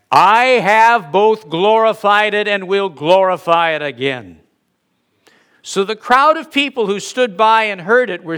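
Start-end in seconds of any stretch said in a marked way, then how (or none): 0.1-4.4 voice from heaven. Acted. God answers Jesus before the crowd, voice from heaven. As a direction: boom it out as God's voice, then let it fall away. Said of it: "a voice came out of heaven".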